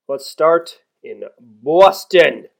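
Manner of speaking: slow, loud mock Boston accent; terrible Boston accent. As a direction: drag it out in a bad Boston accent. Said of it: "That was a terrible Boston accent".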